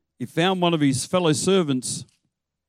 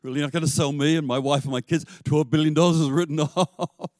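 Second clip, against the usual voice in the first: laughing disbelief; faster than usual. Pretend. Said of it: "Can you imagine".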